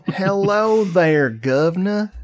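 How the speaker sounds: high, drawn-out mock British hello; British accent. Shown as a demonstration. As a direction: ham up a British greeting, slow and high. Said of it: "British accent once in a while".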